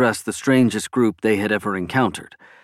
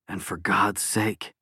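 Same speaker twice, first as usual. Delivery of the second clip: soft inner voice; 2 semitones lower, 8 dB quieter, slower than usual. A narrator's reading. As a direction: plead quietly to an absent friend. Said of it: "Dan thought".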